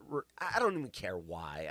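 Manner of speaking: ordinary talk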